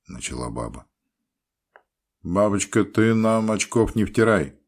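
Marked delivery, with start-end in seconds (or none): 2.2-4.6 loud, stern, wry-mouthed. A narrator's reading. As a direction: scold her from a crooked mouth. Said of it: "сурово, искривив рот".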